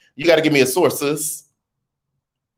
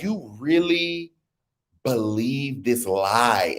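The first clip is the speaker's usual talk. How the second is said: London Hazel voice; 5 dB quieter, much slower than usual. Retold or imitated. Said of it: "London Hazel voice".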